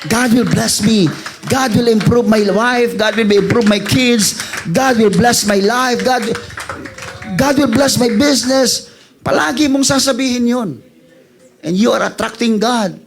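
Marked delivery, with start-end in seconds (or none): 0.1-8.9 each line declared firmly, stress on will; confident declarations. Shown as a demonstration. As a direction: proclaim it with conviction. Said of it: "Just keep on verbalizing". (matapang na pagpapahayag)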